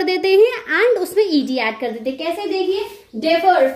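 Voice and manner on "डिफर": slow डिफर leaning on फर; डिफर, second syllable stressed; stress on last syllable. Shown as a demonstration. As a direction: press on the final र of डिफर. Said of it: "इस र पे ज्यादा stress हो रहा है".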